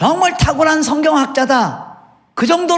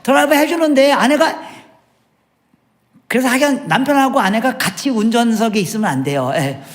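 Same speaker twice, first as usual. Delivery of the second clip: usual speaking voice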